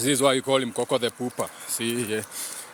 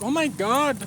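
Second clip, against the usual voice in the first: much higher, squeaky happy dog voice; voicing the dog; 13 semitones higher, slower than usual. Owner voices his happy dog after crossing, high thrilled gush. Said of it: "He's like".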